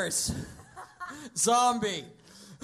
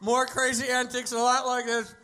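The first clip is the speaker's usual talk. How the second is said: announcer voice. Acted. Mock show host sign-off.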